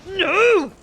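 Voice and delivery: loud, high cry of protest; shouted no. Real, not acted. Player crying out at the game action, shouted no. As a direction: yell it out, long and high.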